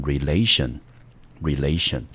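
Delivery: relation with the stress on LA; stress before -tion. Shown as a demonstration. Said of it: "重音就落在省前面这个音节".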